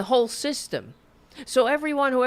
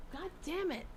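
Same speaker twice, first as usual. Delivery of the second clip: frustrated curse; 9 semitones higher, 14 dB quieter than usual. Real, not acted. Missing the fruit fly.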